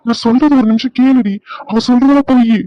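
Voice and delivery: urgent protest. Acted. Urgently protesting innocence in quarrel.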